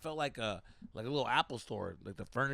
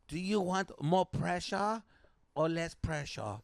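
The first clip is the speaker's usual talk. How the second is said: put-on Asian accent; 3 semitones higher, slower than usual. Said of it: "I did the accent the whole time".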